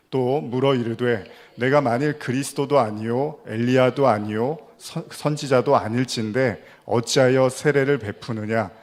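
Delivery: measured, emphatic Bible reading; scripture reading. Acted. Preacher reads John's Gospel to the congregation, measured and emphatic. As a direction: read the passage out firmly and deliberately.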